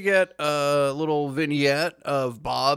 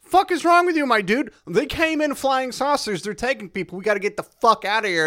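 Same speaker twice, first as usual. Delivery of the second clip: freaked-out characters; 8 semitones higher than usual. Retold or imitated. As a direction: yell at the preacher in a panic. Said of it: "your characters are like".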